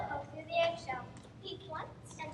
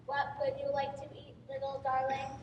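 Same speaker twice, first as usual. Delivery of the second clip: friendly voice. Acted. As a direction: coax the gosling kindly. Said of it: "using her friendliest voice".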